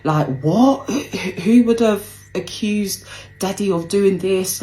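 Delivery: mild mock panic, voice climbing on who would; panicking mum. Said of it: "She's like".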